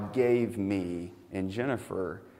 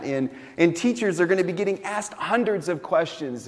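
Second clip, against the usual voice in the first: higher and louder, pressing the point home; preaching with urgency; 7 semitones higher, 5 dB louder than usual. Acted. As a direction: build the sermon to a rising, urgent peak. Builds urgency about stressful school season.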